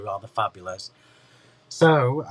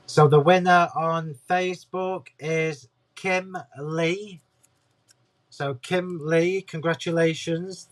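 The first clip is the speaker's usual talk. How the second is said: slow, raised, bright reveal; announcing winner; 4 semitones higher, slower than usual. Real, not acted.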